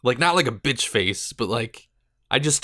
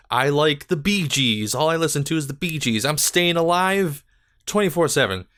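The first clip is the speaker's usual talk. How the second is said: mock fan of a band; 4 semitones higher than usual.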